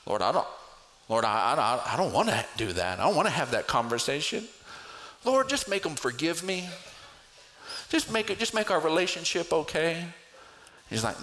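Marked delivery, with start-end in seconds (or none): 0.1-10.1 stammering, fast, whiny pleading; mock reluctant prayer. Believer dodging a conversation, whining at God. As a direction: beg your way out of a hard talk.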